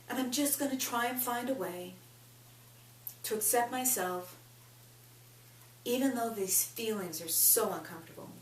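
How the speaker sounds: measured lead-in phrases with long pauses; tapping script. Acted. Coach leading listeners through a tapping round, measured and deliberate. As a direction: say each phrase for listeners to repeat.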